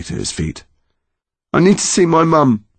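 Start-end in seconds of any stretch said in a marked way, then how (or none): 1.5-2.7 high-pitched, pleading; urgent plea. A narrator's reading. Connor wanting to leave the nightmare, high urgent plea. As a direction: insist with rising distress.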